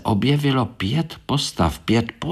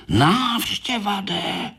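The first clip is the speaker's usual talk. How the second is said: slow, higher worried beetle; alarmed; 11 semitones higher, slower than usual. Acted. Korálek warning of visitors, slow high alarm. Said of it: "lekl se Korálek".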